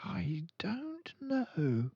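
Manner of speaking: slow, breathless whisper. Acted. Matilda answering her friend in a slow whisper. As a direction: whisper it under your breath. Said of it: "Matilda whispered back".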